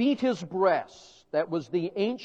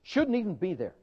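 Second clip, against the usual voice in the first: mock indignation. Mocking crowd's disdain.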